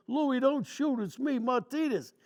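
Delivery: mock urgent call. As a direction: shout so you won't get shot. Sergeant calling out in the dark.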